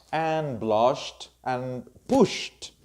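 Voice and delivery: "blushed", "pushed" ending in SH then T; SH plus T ending. Shown as a demonstration. Teacher lists past-tense examples, SH plus T ending. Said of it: "any other sound that has sh".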